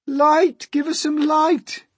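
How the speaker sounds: high, loud clamour; very high, insistent shouting; crowd crying out. A narrator's reading. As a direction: cry out for it like a demanding crowd. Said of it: "they cried".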